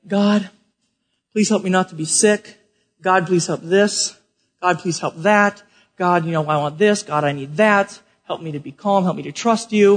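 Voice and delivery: subdued, lightly acted petition to God; imitated bedtime prayer. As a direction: murmur a list of requests as if praying in bed.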